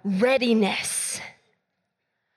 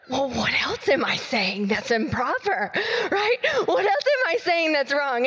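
laughing. Retold or imitated. Friend's embarrassed laughing question.

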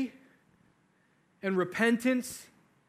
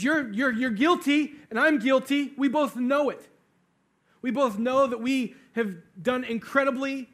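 raised, higher voice, pressing the point; insistent confrontation; 4 semitones higher, 4 dB louder than usual. Retold or imitated. One condemned criminal rebuking the other, insistent. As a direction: drive the admission home forcefully.

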